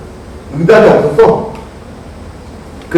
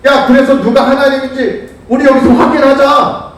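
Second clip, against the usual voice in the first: higher-pitched retold dare to rivals; acted challenge; 6 semitones higher than usual. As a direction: voice a confident challenger calling them out. 엘리야가 바알 쪽에 도전하는 장면. (상대에게 도전하는 말투 흉내)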